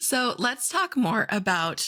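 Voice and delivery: high voice crack mid-phrase, drawn out. Speaker moving on to the next topic in a conversation, voice cracking. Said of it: "My voice just cracked".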